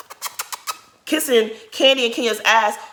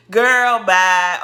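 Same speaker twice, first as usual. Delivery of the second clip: emphatic dismissal; 7 dB louder than usual. Real, not acted.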